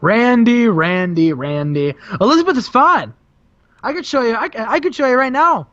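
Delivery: mock the rival, sweet and menacing; a light impression of a gloating heel; Sting voice. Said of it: "Sting says".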